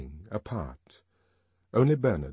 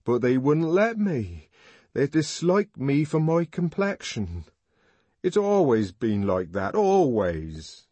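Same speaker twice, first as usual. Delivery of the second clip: louder, higher, bitter lament; hurt young man; 6 semitones higher, 5 dB louder than usual. A narrator's reading. Young man rejected for his complexion, loud bitter lament. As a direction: grieve over being shut out.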